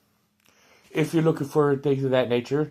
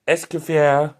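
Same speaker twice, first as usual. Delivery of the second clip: French accent; 4 dB louder, slower than usual. Shown as a demonstration. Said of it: "That was my best French accent of pronouncing it".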